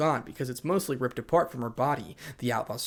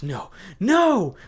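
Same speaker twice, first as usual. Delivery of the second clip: higher, louder refusal building to a yell; panicked cry; 6 semitones higher, 7 dB louder than usual. Acted. Hysterical girl struggling to escape, panicked cry. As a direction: cry out to break free.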